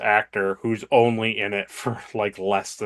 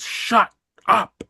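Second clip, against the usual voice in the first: mock snap; 12 semitones higher than usual. Picard snaps at Riker.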